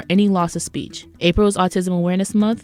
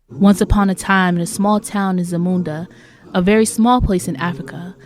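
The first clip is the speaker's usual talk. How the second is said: fairy-tale storytelling. Acted. Storyteller introducing rude women of Zamunda, fairy-tale storytelling. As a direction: narrate it like a tale, stretching key words.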